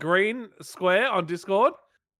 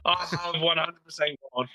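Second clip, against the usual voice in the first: distorted call audio. Real, not acted. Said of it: "Now you sound like I used to".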